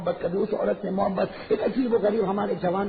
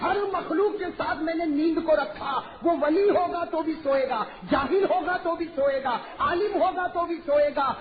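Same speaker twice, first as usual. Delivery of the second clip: stern divine rebuke; 6 semitones higher than usual. Acted. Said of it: "اللہ تعالیٰ تھوڑے ناراض ہو گئے".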